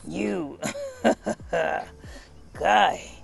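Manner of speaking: mocking laugh mid-line. A narrator's reading. The Onceler laughing at the Lorax, mocking. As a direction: laugh at him as you say it. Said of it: "I laughed at the Lorax".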